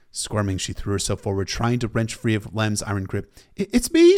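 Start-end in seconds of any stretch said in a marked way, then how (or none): 3.6-4.2 high, desperate shout. A narrator's reading. Arya struggling free to reach Harwin, shouting. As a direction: stumble into a loud, pleading yell. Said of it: "she shouted".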